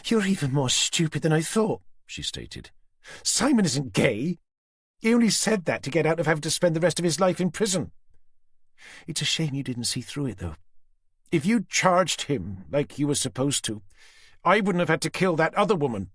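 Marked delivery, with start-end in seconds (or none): 0.1-1.8 high, cold threat; Susan's menacing voice. A narrator's reading. Susan threatening Tanner with the knife at Jenny's throat. 3.2-16.1 high, cold threat; Susan's menacing voice. A narrator's reading. Susan threatening Tanner with the knife at Jenny's throat.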